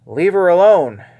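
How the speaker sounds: sharp, loud rebuke. Retold or imitated. Jesus rebuking Judas for scolding Mary, sharp and loud. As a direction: snap it out as a command. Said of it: "in a very sharp tone".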